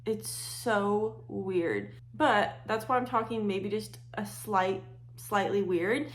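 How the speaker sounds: talking through a numb face; half the mouth numbed; numb from the dentist. Real, not acted. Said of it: "if I'm talking weird, it's because I just got back from the dentist".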